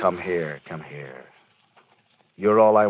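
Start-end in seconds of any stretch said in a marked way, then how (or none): 0.0-0.6 tender. Acted. Husband comforts wife. 0.6-1.2 hushed. Acted. Husband comforts wife, softer repeat.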